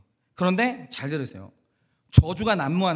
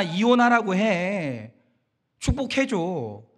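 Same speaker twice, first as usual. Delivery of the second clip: accusing inner voice. Acted. Inner voice urging the pastor to allow divorce, mildly accusing. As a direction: lightly play a nagging, challenging tempter. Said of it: "머릿속에서 이런 소리가 들리기 시작해요".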